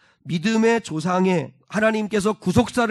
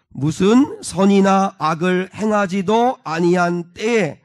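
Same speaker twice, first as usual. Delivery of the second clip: slow, firm congregational reading; deliberate recitation, each phrase set apart; scripture reading; 4 dB louder, slower than usual. Real, not acted. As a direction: read out in unison pace. Leads congregation in reading verse.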